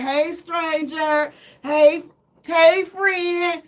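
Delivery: slow, coy hey stranger; flirty come-on voice; flirty greeting. Pretend. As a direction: lure him back sweetly. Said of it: "I'ma be like".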